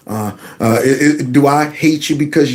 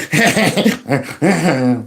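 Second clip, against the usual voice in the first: soft laugh. Real, not acted. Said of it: "I'm laughing in between".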